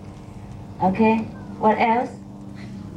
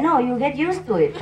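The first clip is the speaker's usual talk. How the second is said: laughing punchline; 4 semitones higher than usual. Retold or imitated. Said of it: "Master said".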